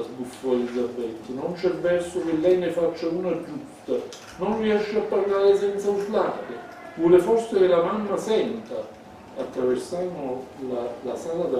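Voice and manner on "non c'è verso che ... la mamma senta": scolding. Acted. Elisabetta scolds her brother.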